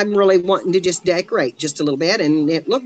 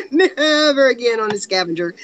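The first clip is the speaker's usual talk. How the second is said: words broken by real laughter; laughing through it; 2 semitones higher than usual. Real, not acted. Remembering the scavenger hunt, laughing as she speaks. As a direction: laugh while saying it.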